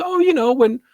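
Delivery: clueless cashier. Retold or imitated. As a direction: sweetly explain the weather map. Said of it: "And she goes".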